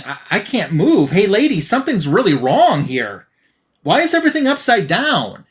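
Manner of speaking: lightly voiced confused severed head, rising to a high question; a hint of a bewildered victim calling to the lady; panicked head. Severed head asks the heroine why everything's upside down, mildly bewildered.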